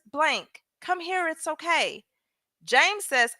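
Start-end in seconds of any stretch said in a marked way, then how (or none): 0.1-2.0 quiet, coaxing reread of a detective's call; softer coaxing reread. Retold or imitated. Reading the detective's words to the audience, softly coaxing. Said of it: "Y'all pay attention to this part".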